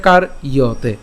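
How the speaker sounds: "কার ইয়তে" as kar, then iya-te; split pronunciation. Shown as a demonstration. Teacher explaining the y sound, careful split "কার ইয়তে". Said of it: "ইয়র মতো হবে".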